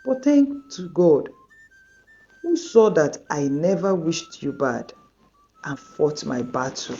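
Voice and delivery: a hurt friend forgiving but distant; hurt and torn. Acted. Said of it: "Tolu was torn".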